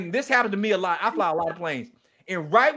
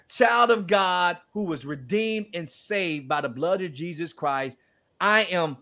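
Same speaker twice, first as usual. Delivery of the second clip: testimony voice. Retold or imitated. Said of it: "tell me, So, um, who are you?".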